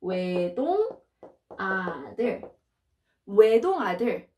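외동 아들 said clearly, then quickly; model repeat. Shown as a demonstration. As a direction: drill 외동 아들 at two speeds. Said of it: "let's do it again".

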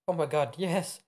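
high, loud squeal of yes; acting an overjoyed bride-to-be; excited acceptance. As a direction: burst out with a thrilled yes. Acted acceptance of marriage proposal.

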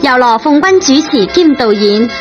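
usual speaking voice

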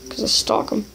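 whispered creepy confession. Acted. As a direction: whisper it like a stalker's secret. Creepy texter admits stalking.

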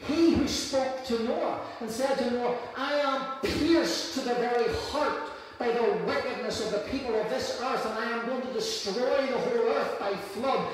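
rising, driving sermon cadence; preaching. Acted. Pastor to congregation, preaching over music. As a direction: preach it with growing fire.

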